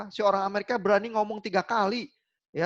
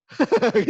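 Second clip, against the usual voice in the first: loud, higher burst of laughter; amused laugh; 4 semitones higher, 8 dB louder than usual. Real, not acted. Lecturer amused by Germans offering food three times, laughing. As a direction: laugh out loud at your own anecdote.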